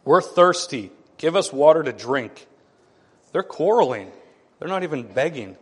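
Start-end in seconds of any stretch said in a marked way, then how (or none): 0.0-2.5 louder, pushier demand on "We're thirsty"; hammed-up entitled crowd; arrogant demand. People demanding water from Moses, arrogant. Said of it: "Do you hear the arrogance in that?".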